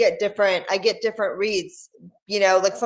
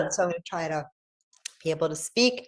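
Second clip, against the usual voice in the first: choked on water, recovering; coughing up water; 2 semitones lower than usual. Real, not acted. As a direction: speak after a coughing fit. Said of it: "my water went down the wrong way".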